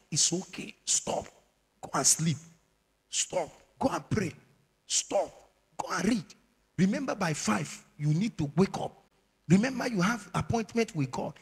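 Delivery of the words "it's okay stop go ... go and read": a lightly voiced phone nudging you away; phone's voice. The phone talking to its user, lightly voiced. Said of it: "The phone is talking".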